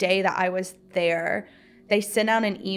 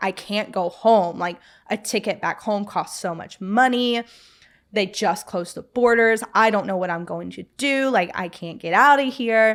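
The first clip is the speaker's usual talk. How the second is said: put-on panicked, pleading young female voice; 3 dB louder than usual. Retelling a coworker's reaction to news the program was canceled: imitating a panicked voice. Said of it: "the panic in her voice".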